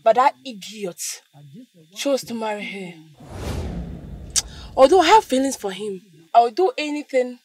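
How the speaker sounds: jealous sister plotting loudly; bitter scheming. Acted. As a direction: spit out her jealousy. Jealous sister plots aloud.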